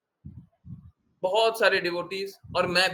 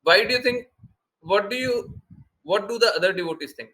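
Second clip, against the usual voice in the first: higher, louder, doubting the praise; surprised question; 4 semitones higher, 4 dB louder, much slower than usual. Retold or imitated. Guru questions a disciple's praise, higher and louder. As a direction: challenge the compliment with raised pitch. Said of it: "Srila Prabhupada remark".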